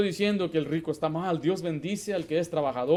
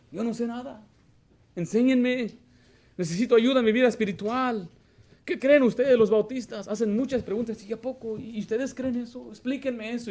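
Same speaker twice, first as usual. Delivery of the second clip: feigned naive newcomer; 7 semitones higher, 4 dB louder than usual. Retold or imitated. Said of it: "pretenden ser nuevos".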